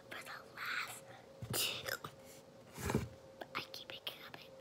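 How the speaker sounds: whispering through hiccups; words broken by hiccups. Real, not acted. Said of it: "I have hiccups".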